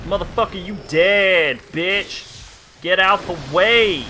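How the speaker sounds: lightly put-on ghetto-country swagger; ghetto-country accent. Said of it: "I started talking like that".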